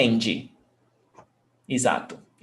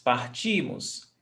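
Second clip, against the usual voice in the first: Partimos with the middle "ti" stressed, softer voice; stress before last; 3 semitones lower, 5 dB quieter than usual. Shown as a demonstration. Teacher repeating the "nós" form, penultimate stress. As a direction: softly lean on "ti" in Partimos. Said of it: "Stressed syllable before last".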